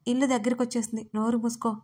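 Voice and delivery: ordinary delivery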